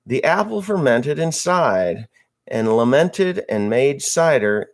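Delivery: lightly sing-song limerick reading; a hint of a poem reading voice; limerick recital. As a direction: recite it like a bawdy poem, slowing at the punchline.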